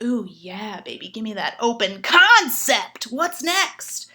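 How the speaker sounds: mock sexy coo; sultry flirting. To a texting gentleman, a mock sultry coo. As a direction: purr it like dirty talk. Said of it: "I'm like".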